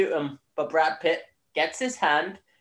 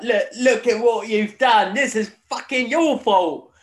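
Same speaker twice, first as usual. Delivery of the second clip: mock angry telling-off, higher and louder; hammed-up furious sergeant scolding the new guy; imitating angry Brad Pitt; 7 semitones higher, 6 dB louder than usual. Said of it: "he's just really mad at this guy".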